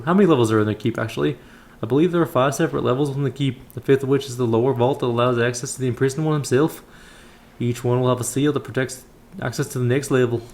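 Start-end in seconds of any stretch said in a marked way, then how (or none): 1.8-10.4 put-on voice of a temple elder; measured, formal elder's counsel; kindly elder priest. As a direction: instruct the young adventurer as a solemn old brother. Voices Brother Paul, the elder.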